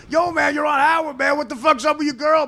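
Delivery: hammed-up kid calling out to a guy he recognizes; excited street kid. Voicing the kid who recognizes him.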